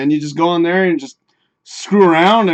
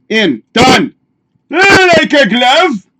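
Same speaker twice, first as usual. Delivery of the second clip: drawn-out gloat; 9 semitones higher, 8 dB louder, much slower than usual. Pretend. Banner fits perfectly.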